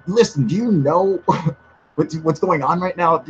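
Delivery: lightly voiced, serious, suspicious host leaning in; a hint of a tense, confiding warning; Third Phase impression. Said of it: "it was a good impression of Third Phase".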